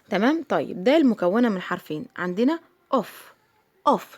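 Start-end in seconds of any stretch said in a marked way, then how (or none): 2.9-4.2 أوف with a short o, as one isolated word. Shown as a demonstration. Teacher showing two-letter words, short O. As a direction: repeat أوف with a short vowel, not the letter name. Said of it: "شفت أنا نطقت إزاي".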